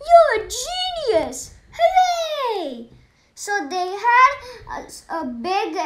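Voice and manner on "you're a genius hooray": high, loud delighted cheering with a laugh; gleeful cheer. Acted. Doctor cheering the nurse's idea, high and laughing. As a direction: cheer like the best idea ever.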